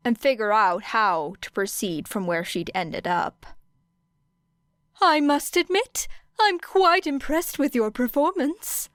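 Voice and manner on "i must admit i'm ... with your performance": high, bright small principal voice; cheerful high-voiced principal; Nezu's voice. A narrator's reading. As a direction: pitch up and chirp it pleasantly. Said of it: "said Nezu".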